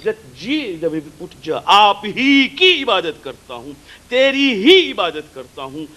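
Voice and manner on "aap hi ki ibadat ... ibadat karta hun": HI singled out with emphasis in each phrase; stress on HI. Shown as a demonstration. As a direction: punch the little word "hi". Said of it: "This he gives an emphasis".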